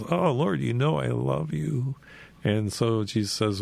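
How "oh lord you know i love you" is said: Peter's protest, pitched up; pleading higher voice. Retold or imitated. Peter answering Jesus, earnestly pleading and high. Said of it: "he says".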